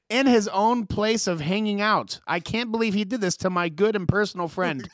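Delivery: slow, prim, proper-English mock version of the rapper; imitating a rapper. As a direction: translate his grief into stiff polite speech, slowly. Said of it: "this is gonna be the rapper".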